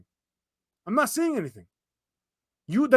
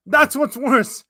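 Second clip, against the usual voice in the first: That's punched, louder; emphatic; 3 semitones higher, 5 dB louder, slower than usual. Acted. Streamer stressing the worse part to chat. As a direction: lean hard on That's what's worse.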